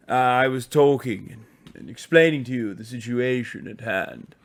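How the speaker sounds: lightly put-on posh English; formal mock-posh English explaining; posh English gent addressing his audience; posh English accent. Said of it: "I can't do the accent anymore".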